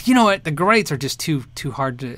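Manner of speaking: ordinary talk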